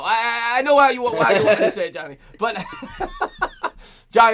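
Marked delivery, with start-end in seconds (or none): 2.6-3.7 high breathy giggle; can't hold back the giggle. Real, not acted. Breaks up after the joke.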